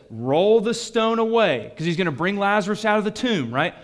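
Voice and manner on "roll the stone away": commanding. Retold or imitated. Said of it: "Jesus says".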